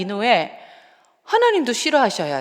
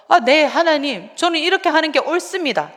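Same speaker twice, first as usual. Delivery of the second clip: put-on stubborn sulky child; 7 semitones higher than usual. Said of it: "끝까지 하나님 앞에 그렇게 중이 병 아이처럼".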